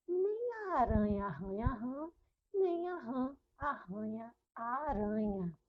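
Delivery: clear, rhythmic tongue twister for repeating; tongue twister demo. Shown as a demonstration. Teacher leading pupils in a repeat-after-me tongue twister. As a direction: say the twister so the class can copy it. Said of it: "repete aí comigo".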